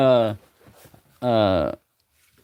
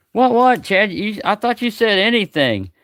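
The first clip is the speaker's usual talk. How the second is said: mock surprise; 8 semitones higher than usual. Teasing Chad who asked for anything, mock surprise. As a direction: play innocent and shocked.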